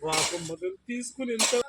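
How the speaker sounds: high, drawn-out crying voice; real crying. Real, not acted. Man mourning the dead puppy, crying. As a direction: wail the words slowly, high-pitched. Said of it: "sir ఎలా ఏడుస్తున్నారో".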